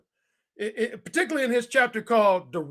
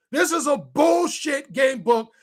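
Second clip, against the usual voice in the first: slow emphatic shout; 4 semitones higher, slower than usual. Real, not acted. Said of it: "repeats it louder".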